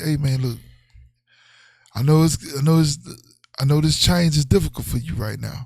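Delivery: low, measured mock heart-to-heart; mock consoling talk. Boyfriend talking to girlfriend's kid, mock consoling. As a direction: gently break hard news, tongue in cheek.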